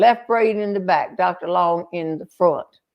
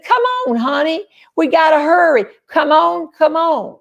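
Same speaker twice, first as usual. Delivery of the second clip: high, insistent retold holler; urgent calling; 7 semitones higher, 3 dB louder than usual. Wife hurrying her husband back down to the canoe, calling out urgently. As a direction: call out pleadingly, pitch well up. Retold urging man down from road.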